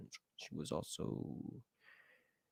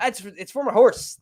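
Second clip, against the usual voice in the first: much higher, playful put-on pleading; high-pitched mock excuse; 9 semitones higher, 3 dB louder than usual. Customer insisting to the pet store, high mock pleading.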